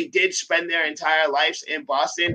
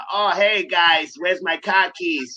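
mock Boston accent; slower than usual. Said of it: "overplayed trope in the accents".

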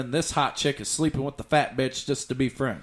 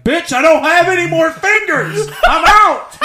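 much higher, louder, laughing; laughing quote; 12 dB louder than usual. Retold or imitated. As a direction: crack up while delivering the line. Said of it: "He's like".

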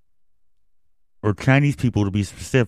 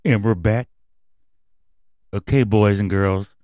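put-on overbright kids party host. Kids show host hype.

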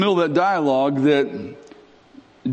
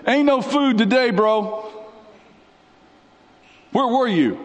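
Mary; 5 semitones higher than usual. Acted. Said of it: "Mary is like".

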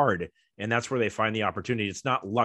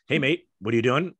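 put-on Australian accent; 2 semitones higher than usual. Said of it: "'cause he's Australian".

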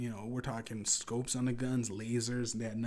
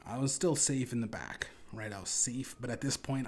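ordinary talk

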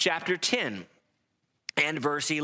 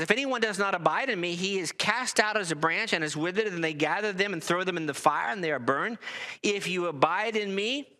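raised, ringing scripture reading; 3 semitones higher than usual. Acted. Preacher reading Jesus's words to the congregation, raised and ringing. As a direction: read the verses out like a pulpit proclamation. Preacher reads John fifteen aloud.

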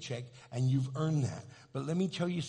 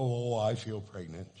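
lower, sinking mock groan of certainty; heavily certain; 5 semitones lower than usual. Imitating pregnant women on other days, heavily certain. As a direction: let "Oh" sink with the realization. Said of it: "other days they go".

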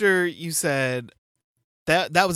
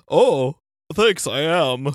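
man doing a woman's voice; 5 dB louder, much slower than usual. Acted. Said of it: "That's my girl impression".

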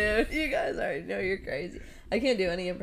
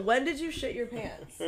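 laughing; 4 semitones higher, 6 dB quieter, slower than usual. Real, not acted. Laughing question.

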